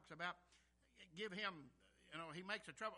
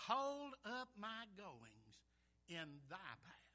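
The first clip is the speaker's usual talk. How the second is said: very slow, measured verse; scripture reading; much slower than usual. Acted. Rereads the verse.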